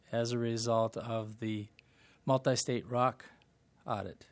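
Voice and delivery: loud, projected repeat of a question; speaking up. Real, not acted. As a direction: project so the far end can hear. Repeats after not being heard.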